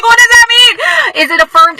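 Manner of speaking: a wife retelling her stunned reaction in a squeaky voice. Retold or imitated. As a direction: shoot way up high and stretch it out. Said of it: "I'm like".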